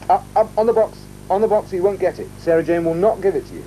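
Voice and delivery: high, teasing sing-song to the puppet; playful teasing. Real, not acted. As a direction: tease him with the treat held out of reach.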